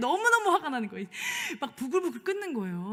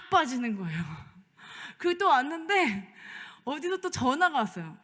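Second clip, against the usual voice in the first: normal talking voice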